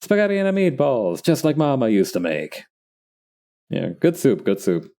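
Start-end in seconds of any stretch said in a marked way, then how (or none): 0.0-2.6 put-on heavy New York Italian accent; thick New York mobster voice. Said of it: "with a heavy New York accent".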